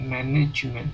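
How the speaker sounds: MANAJEMEN as English "MAN-ij-ment", stress up front; good English pronunciation. Retold or imitated. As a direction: imitate a fluent speaker's English MANAJEMEN. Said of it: "lihat aja dia ngomongnya gitu". (MANAJEMEN diucapkan ala Inggris, "ménejment")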